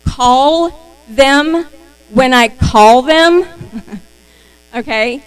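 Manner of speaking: slow, laughing, stumbling over the words. Real, not acted. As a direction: giggle while restarting the sentence. Laughs while repeating herself.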